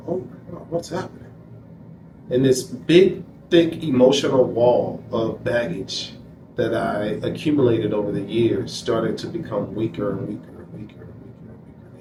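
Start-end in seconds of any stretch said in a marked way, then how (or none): 0.1-1.3 high, hushed wonder; amazed and a little lost, kept soft; astonished. Retold or imitated. Feeling his emotional wall crumble, high hushed amazement. 10.1-12.0 quick, much softer and lower, trailing off; fading away. Real, not acted. Describing the wall of baggage melting, fast fading repeats.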